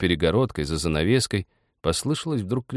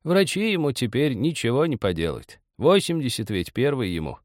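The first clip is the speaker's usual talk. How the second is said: put-on higher-pitched gentle old woman; affectionate; 6 semitones higher than usual. A narrator's reading. Old woman talks of her husband, affectionately. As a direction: explain fondly, with resignation. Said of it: "ласково сказала из другой комнаты старуха".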